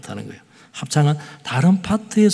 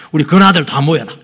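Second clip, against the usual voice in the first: calling out; 6 dB louder than usual. Retold or imitated. Calling the guys together.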